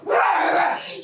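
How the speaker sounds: slow, tearful pleading; sobbing apology. Acted. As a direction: whimper the apology like a small child. Daughter begging scolding mother.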